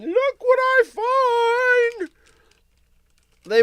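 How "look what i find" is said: high, loud, thrilled reveal; excited reveal. Real, not acted. Host reveals the cookies to listeners, high excited shout. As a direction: show off the find with glee.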